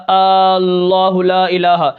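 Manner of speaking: اللہ لا الہ very slow, the لا held overlong; stretched recitation. Shown as a demonstration. Teacher chanting the wrong lengthened لا. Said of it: "آپ نے کسی حرف کو بڑھا دیا".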